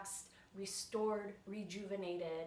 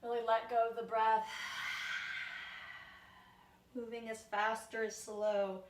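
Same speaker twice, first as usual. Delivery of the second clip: yoga guidance; 2 semitones higher than usual. Real, not acted. Teacher leading viewers through spine warm-up, measured yoga guidance. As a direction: guide the movement with long pauses between phrases. Guides slow yoga movement with long pauses.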